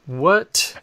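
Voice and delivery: startled high "What?"; a sudden astonished what; surprised. Real, not acted. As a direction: blurt it out in disbelief. Host stunned by the story.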